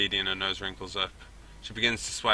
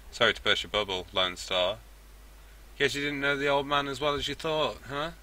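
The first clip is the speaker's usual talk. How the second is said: firm dwarf woman, pitched up in places; soft but strong; 3 semitones higher than usual. Acted. Dwarf cuts in on the standoff, soft but strong. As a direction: say it with quiet strength. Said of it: "her voice is soft but strong".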